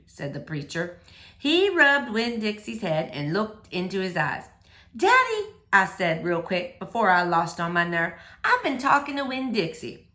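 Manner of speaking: gentle, lively read-aloud voice; story reading for children. A narrator's reading. Teacher reading a chapter book to boys and girls, lively read-aloud. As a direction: read it like story time for kids.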